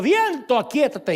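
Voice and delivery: a firm voice calming a storm; rebuking the storm with authority; Jesus commanding. Retold or imitated.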